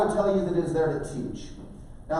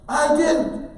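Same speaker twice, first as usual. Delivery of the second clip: high, raised-voice protest; defiant denial; 11 semitones higher, 6 dB louder than usual. Retold or imitated. Son yelling back at parent, defiant. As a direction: shout back in your own defence.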